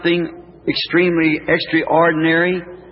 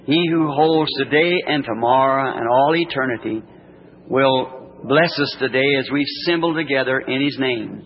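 gentle warm blessing; 2 semitones lower than usual. Real, not acted. Prayer continues to amen.

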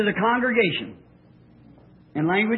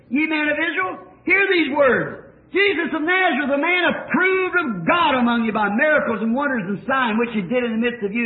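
higher, forceful preaching rebuke; Peter's rebuke; 3 semitones higher than usual. Retold or imitated. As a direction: thunder it at the crowd as Peter. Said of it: "Talk about a rebuke".

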